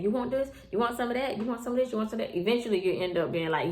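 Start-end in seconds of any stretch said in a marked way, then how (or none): 0.0-2.4 higher-pitched imitation of constant offering; mock pestering. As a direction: lightly mimic someone who keeps asking. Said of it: "somebody keep constantly asking".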